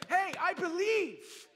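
slow, loud, lifted confession; a dying thief confessing belief, slow and loud; simple confession. Retold or imitated. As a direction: say it like a sinner's last-moment plea. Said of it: "you can say".

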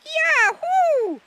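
loud, very high-pitched squeaky whoop; piercing little character yell; excited cry. A narrator's reading. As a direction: cry out like a tiny water beetle. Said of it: "Wanda cried out".

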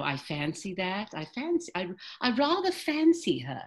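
upper British accent, fancy kept short, rather with ah; British accent demo. Shown as a demonstration. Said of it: "Rather goes there, but fancy doesn't".

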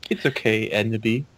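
soft reassurance. Acted. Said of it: "said Draco".

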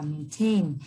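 "maintain" with the stress on "tain"; teacher's demo of main-TAIN; second-syllable stress. Shown as a demonstration. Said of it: "trọng âm sẽ rơi vào âm tiết thứ hai".

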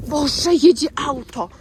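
slow, loud alarmed cry. Real, not acted. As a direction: panic as the car comes. Car approaching.

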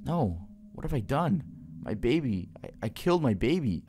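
stunned parent realising a terrible mistake; horrified grief. Acted. Mother realises she killed son.

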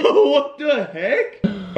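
laughing. Real, not acted. Laughing at his look.

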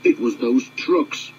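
slow sulky mutter. Acted. Sixteen blames the trucks, slow and sulky. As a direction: drag it out, blaming the trucks. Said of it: "muttered sixteen sulkily".

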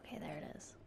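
soft unvoiced whisper. Real, not acted. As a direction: whisper it under breath. Whispered spotting.

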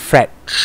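"fresh" ending in a prolonged hush of SH; long SH sound. Shown as a demonstration. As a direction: hold the final SH of "fresh". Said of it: "S กับ H เป็นเสียงยาวนะครับ".

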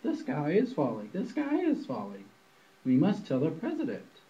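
lightly voiced panicky chicken; mild clucking chicken alarm; clucking hen.

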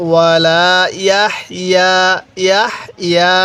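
ইয়াহইয়া with air pushed out on হ and the ইয়া drawn long; breathy হ sound. Shown as a demonstration. Teacher demonstrating the হ sound, breathy recitation. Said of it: "হালকা হাটা উচ্চারণের সময় মুখ দিয়ে বাতাস বের করব".

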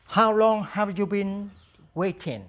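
slow, clear repeat-after-me English; slow drill model. Shown as a demonstration. Teacher drills the question slowly for students to repeat. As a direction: say it slowly for the class to copy. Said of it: "Now repeat after me".

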